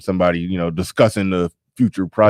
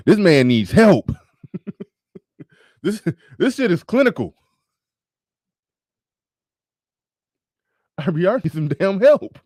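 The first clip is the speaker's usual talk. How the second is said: incredulous; 8 semitones higher than usual. Real, not acted. Incredulous laughing comment.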